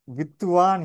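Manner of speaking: வித்துவான் with a full thu syllable before வா; Tamil form. Shown as a demonstration. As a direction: say வித்துவான் in three syllables, vith-thu-vaan. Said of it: "இதை தமிழில் எழுதும்போது". (வித்துவான் என்று தமிழ் மரபுப்படி, இடையில் து சேர்த்து)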